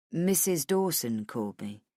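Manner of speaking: low, level male character voice; matter-of-fact man. Acted. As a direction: break the news in a low, even voice. Man delivering news in dialogue.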